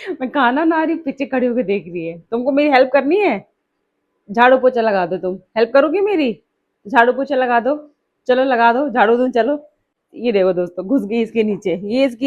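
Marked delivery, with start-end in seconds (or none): 2.2-9.7 loud, playful scolding of the pet; loud teasing at the dog. Real, not acted. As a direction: call it out teasingly to the dog behind you. Teasing the dog while cooking. (ऊँची आवाज़ में कुत्ते को छेड़ना)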